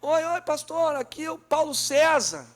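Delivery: alto e agudo, chamando ao telefone; amigo ao telefone. Retold or imitated. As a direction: gritando numa ligação ruim. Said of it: "eu digo". (amigo chamando alto ao telefone)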